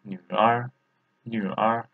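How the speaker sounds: "nu R" as Mandarin, half third tone first. Shown as a demonstration. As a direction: model "nu R" starting on a half third tone. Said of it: "half third tone".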